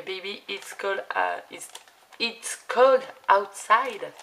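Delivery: playful put-on English accent; mock English accent. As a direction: croon it in a hammed-up English accent. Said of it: "avec mon superbe accent anglais".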